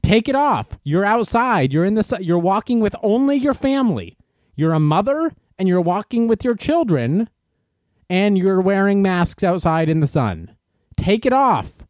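hammed-up scolding of a stranger in the street; mock berating. Protester berating a masked mother in the sun, mock-yelling. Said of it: "We go".

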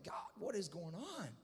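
mildly tearful plea, re-enacted; a touch of acted sobbing; mock weeping. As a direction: plead wearily, as if cried out. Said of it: "I'm just weeping and sobbing and crying".

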